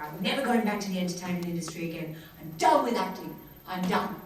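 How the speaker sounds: dramatic declaration, punching the final words; fed-up, emphatic vow; emphatic quitting. Retold or imitated. Actress tells brother she quits, emphatic and dramatic.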